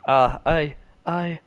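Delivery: stammering, tripping over words; nervous stutter, stuck on I. Acted. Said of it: "I start to stutter".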